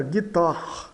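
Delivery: guitarre ending in a rasped R as in Portuguese "carro"; French final R. Shown as a demonstration. Teacher showing learners the R of carro, French final R in guitarre. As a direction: say guitarre with the double-R sound of "carro" at the end. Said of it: "de carro. Carro, né? Então fica".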